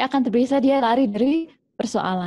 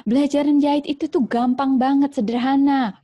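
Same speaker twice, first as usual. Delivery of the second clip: lecturing mother; 4 semitones higher than usual. Acted. Mother lecturing her child at length about sewing, mildly voiced. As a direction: drone on explaining sewing to the kid. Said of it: "panjang lebar".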